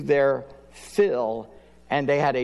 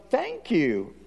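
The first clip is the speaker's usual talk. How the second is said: calm thanks; 5 semitones higher than usual. Retold or imitated. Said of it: "And he goes".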